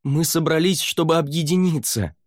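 high forceful shout; demanding shout. Acted. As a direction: order them to stop. Savier urges the lords.

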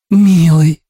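a high sighed "Милый"; breathed out. A narrator's reading. Ursula moved by his restaurant choice, high sigh. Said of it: "выдохнула Урсула".

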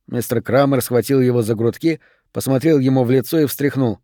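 ordinary delivery, nothing marked

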